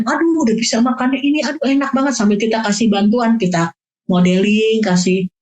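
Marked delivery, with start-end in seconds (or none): 0.0-2.2 bright, higher praise for the eater; praising the child. Shown as a demonstration. Parent praising a child at mealtime, higher and excited. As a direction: cheer the child on for eating. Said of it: "Kita kasih pujian".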